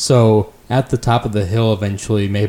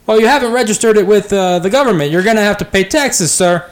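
lightly voiced elf, unconvinced; suspicious elf; 12 semitones higher, 3 dB louder than usual. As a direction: elf rider doubting the firewood story.

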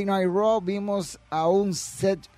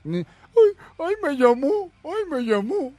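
higher, mock-swooning sing-song; 10 semitones higher, 4 dB louder than usual. Streamer mocks fan Bobby bragging about a call, higher mock swoon. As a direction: tease the fan as if thrilled by a call.

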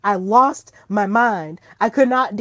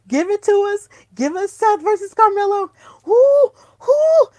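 much higher and louder, cheering; hyped shout; 10 semitones higher, 6 dB louder than usual. Real, not acted. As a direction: cheer for the dream match. Demanding a dream match.

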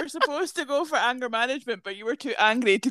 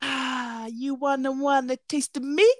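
drag queen lyric; 3 semitones higher than usual. Retold or imitated. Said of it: "bit where she went".

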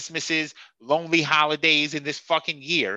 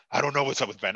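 hoarse Doc impression; 2 semitones lower, faster than usual. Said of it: "With his hoarse voice".

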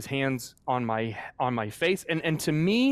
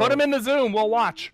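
playful excited joke; 11 semitones higher, 7 dB louder than usual. Real, not acted. Joking about watching the birth.

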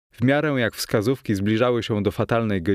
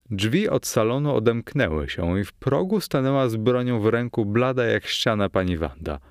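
ordinary delivery

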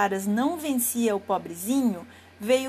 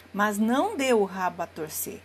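ordinary delivery

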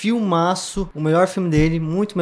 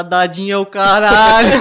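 shouted movie quote; 3 semitones higher, 6 dB louder than usual. Retold or imitated. Mock gringo quoting film line.

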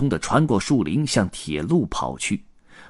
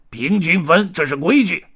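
raised, high-pitched arguing voice; clamouring; 8 semitones higher, 4 dB louder than usual. A narrator's reading. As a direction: insist loudly on a fair split. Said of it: "黑胡子嚷嚷起来".

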